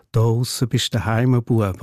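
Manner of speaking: grandmother's line in Swiss German dialect. Retold or imitated. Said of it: "ein Mundart-Einsprengsel".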